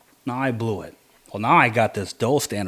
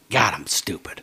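whispered self-rebuke. Retold or imitated. Hunter alone after the deer flee, whispering at himself in disgust. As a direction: scold yourself under your breath.

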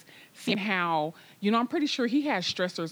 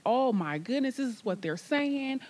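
higher-pitched, mildly flustered worry; retold freaking out; 4 semitones higher than usual. Mother reacting to doctors' bad news, acted flustered worry. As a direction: act out a stressed mother fretting. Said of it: "I'm freaking out".

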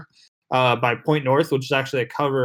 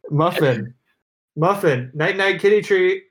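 higher sing-song pet call; talking to a cat; 5 semitones higher than usual. Real, not acted. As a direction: coax the cat like a pet owner. Calling the cat for treats.

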